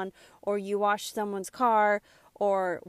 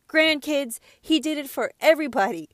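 louder, fast, fired up; getting emotional; 3 semitones higher, 5 dB louder than usual. Real, not acted. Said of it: "I get really emotional about stuff like this".

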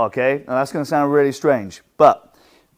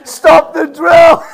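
exhausted students; 14 dB louder, slower than usual. Retold or imitated. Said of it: "they're like".

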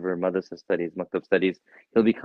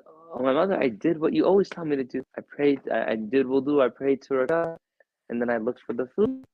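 put-on higher, light child's voice; boy's voice; 5 semitones higher than usual. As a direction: tell it like an eager little boy. Son voiced in story.

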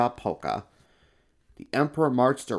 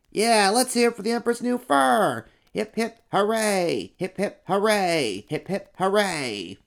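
cheering helper; 10 semitones higher, 4 dB louder than usual. Acted. Helper leads the crowd in cheering the emperor. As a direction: lead the hoorays, then run out of steam.

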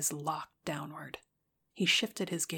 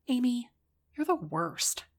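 whiny high pouting complaint; overdramatic pout; 7 semitones higher, 4 dB louder than usual. Acted. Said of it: "pouting overdramatically".

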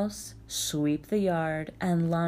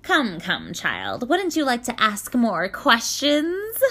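wailing; 5 semitones higher, 5 dB louder, slower than usual. Acted. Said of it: "wailed the Yaga".

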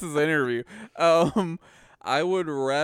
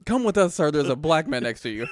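mock alarmed staff; 5 semitones higher, 6 dB louder than usual. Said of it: "mocking staff warning".

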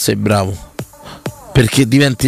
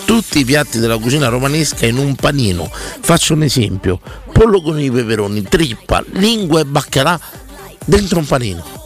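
ad read. Acted. Host reads live restaurant ad.

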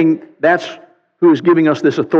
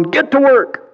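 commanding; 10 semitones higher than usual. Acted. God ordering the dawn.

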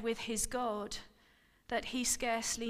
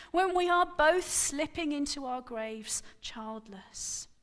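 raised, pleading cry; 4 semitones higher, 4 dB louder than usual. Acted. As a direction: protest against being childless, voice raised. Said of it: "she cried at last".

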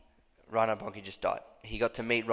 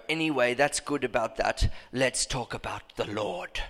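put-on German accent; 4 dB quieter than usual. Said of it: "Was that a good accent?".

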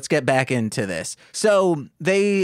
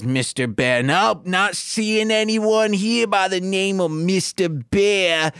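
higher, put-on dismissive doorman; 5 semitones higher than usual. The doorman to Yogi at the front, a dismissive put-on voice. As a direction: check the list and brush him off. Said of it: "the guy says".

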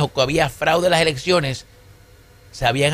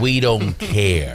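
mock indifference; 6 semitones lower, slower than usual. Host acts out the quoted reply.

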